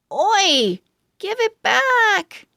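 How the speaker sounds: indignant shout. Acted. Pug yells at the squirrel, indignant. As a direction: yell at the thief to give it back.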